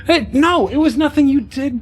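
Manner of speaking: high-pitched, hurried reassurance; hasty reassurance. Acted. Eve tells the hurt child she's blameless, reassuring. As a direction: jump in high to soothe a child.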